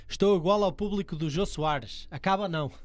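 slow reading. Shown as a demonstration. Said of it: "Tu lê sem entonação".

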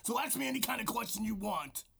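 lightly gruff wrestling promo; mild wrestler promo voice. Acted. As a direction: talk like a wrestler into the mic. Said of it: "This is my wrestler voice".

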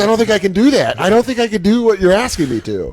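high, whiny-scared protest, hammed up; comic panicky refusal in a high voice; mock overwhelmed pleading. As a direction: plead like you're being crowded. Acts out intimidated man begging off.

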